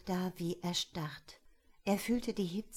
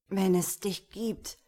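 hoarse croak, a touch louder; 5 dB louder than usual. Acted. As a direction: croak it out desperately. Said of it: "krächzte er".

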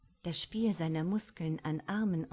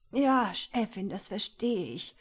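louder, higher gasping yes; panting reply; 4 semitones higher, 6 dB louder than usual. A narrator's reading. The beaten secretary answers his boss, panting. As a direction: answer through pain and arousal, breathless. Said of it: "Mister Miller keuchte".

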